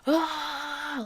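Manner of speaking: a brief retold yelp of terror; imitated scream. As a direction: act out a brother's scream. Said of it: "would wake up screaming".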